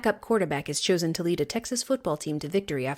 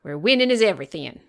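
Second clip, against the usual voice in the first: mock Southern accent. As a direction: play a small-town Texas coach, half joking. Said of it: "hard not to do a terrible Southern accent".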